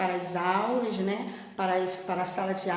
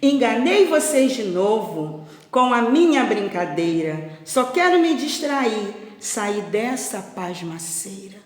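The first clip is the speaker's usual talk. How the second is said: louder, lightly playful boast; mischievous teasing; 6 dB louder than usual. Acted. Shepherd boy mocking the farmers he fooled, playful gloating. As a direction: gloat a little over the trick, then settle down. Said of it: "Pedro voltou a rir e disse".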